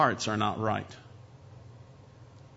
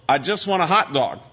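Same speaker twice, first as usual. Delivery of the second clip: exasperated diner; 4 semitones higher, 5 dB louder than usual. Acted. Skit diner cuts waiter off.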